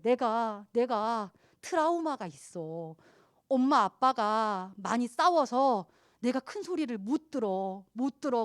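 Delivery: slow, halting, frightened voice; trembling confession. Retold or imitated. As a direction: tell it haltingly, shaking. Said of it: "벌벌벌 떨면서 얘기하는 거예요". (떨면서 천천히 털어놓는 말투)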